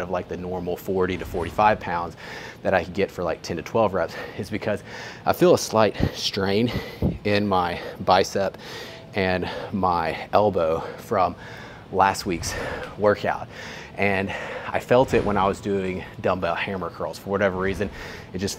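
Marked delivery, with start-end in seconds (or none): 5.3-13.5 slow, breathy, winded after a set; catching breath between words. Real, not acted. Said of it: "the reason why I'm out of breath right now".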